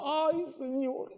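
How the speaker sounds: high, soft, very slow frightened whimper; scared rider. Acted. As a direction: gasp it out in fear at the top. Rider peeking over the top.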